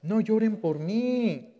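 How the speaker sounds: slow, tender voice of Christ; Christ speaking. Acted. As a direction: say it gently and slowly as Jesus. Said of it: "¿Y qué les dice Cristo?". (Cristo hablando despacio y con ternura)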